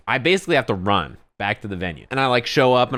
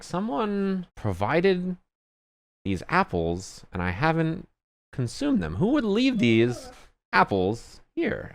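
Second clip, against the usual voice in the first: high, slow, dazed drawl; spaced-out Z; 8 semitones higher, 3 dB quieter, slower than usual. Retold or imitated. Retelling a stoned friend, slow and dazed. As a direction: play the zoned-out friend, slow and floaty.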